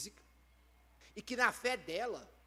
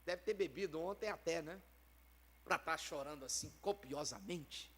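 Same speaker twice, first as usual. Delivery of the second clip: mocking judgment; 6 semitones lower, 9 dB quieter than usual. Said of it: "chega um cara julgando ela e falando".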